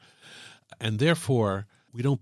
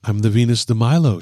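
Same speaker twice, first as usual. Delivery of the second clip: mock grand; 11 dB louder than usual. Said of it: "she said disarmingly".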